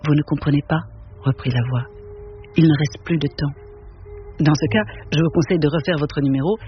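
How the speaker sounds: measured, even reading of a novel; story narration. A narrator's reading. Reading Auster's novel to an audience, steady literary narration. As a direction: read it to the room, unhurried and calm. Reads Cité de Verre aloud.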